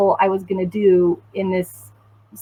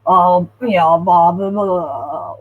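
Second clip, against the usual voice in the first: droning meeting chatter; 3 dB louder, slower than usual. Retold or imitated. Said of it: "It sounded like".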